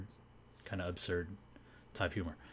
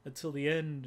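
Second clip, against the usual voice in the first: much higher, louder "Oh, wait, no"; mock alarmed hosts; 9 semitones higher, 5 dB louder than usual. Hosts interrupting Berika's early punchline, high and urgent. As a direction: stop her in a hurry. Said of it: "the hosts are like".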